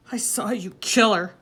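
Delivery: a breathless whisper on "kill"; hushed accusation. A narrator's reading. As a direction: whisper "I saw you kill her" in dread. Boy accuses father, hushed first.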